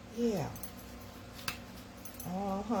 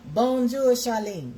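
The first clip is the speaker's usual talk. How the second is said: high, loud sing-song bonjour; cheery French greeting; 5 semitones higher, 7 dB louder, slower than usual. Shown as a demonstration. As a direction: call out a bright hello to Charlene. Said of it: "that's my French".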